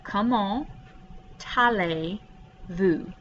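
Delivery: "comment" ending T carried straight into "allez-vous"; linked pronunciation. Shown as a demonstration. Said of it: "This T right here connects to the A".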